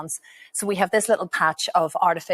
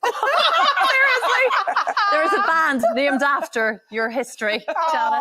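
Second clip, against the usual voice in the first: laughing; 10 semitones higher, 6 dB louder, slower than usual. Real, not acted. Laughing at tweeted band name.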